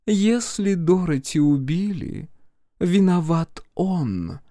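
high, measured accusation; slow, deliberate. A narrator's reading. Brenda accuses the blackmailer of killing her daughter, slow and deliberate. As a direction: spell out the blame slowly. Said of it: "медленно проговорила Бренда".

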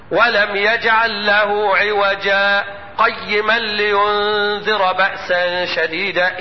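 slow chanted tajwid recitation; Quran recitation. Shown as a demonstration. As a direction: chant the verse slowly, melodic. Recites verse after explaining.

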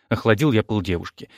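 ordinary delivery, nothing marked

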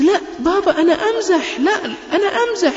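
put-on high, light laugh to calm a child; laughing reassurance. Father reassures his frightened little son, laughing lightly. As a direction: laugh it off so he stops fearing.

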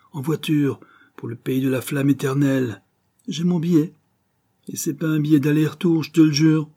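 high, elated proclamation; exclaiming. A narrator's reading. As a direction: proclaim freedom, mad with impatience. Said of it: "s'écriait-il". (s'écrier avec exaltation, voix haute)

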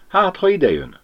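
Ágnes fretting to Pali, anxious and high; worried whisper-question. Acted. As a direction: ask it with sudden fear.

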